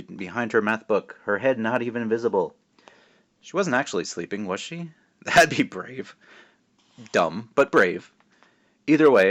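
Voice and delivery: put-on lively read-aloud narration for kids; story reading. A narrator's reading. Author reading his book aloud to schoolkids. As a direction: tell it like a storyteller to a class.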